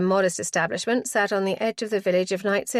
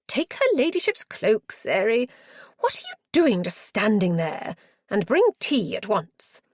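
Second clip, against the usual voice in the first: fussing matron. Acted. Matron ordering Sary to take the cloak, fussy and bossy.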